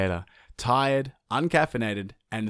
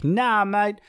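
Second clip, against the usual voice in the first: defiant sun; 10 semitones higher, 3 dB louder than usual. Acted. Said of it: "he was like".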